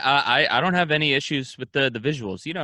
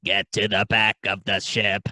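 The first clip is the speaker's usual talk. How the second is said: deep mock alien command; alien Splurn; 6 semitones lower than usual. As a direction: lower alien order. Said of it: "his name's Splurn".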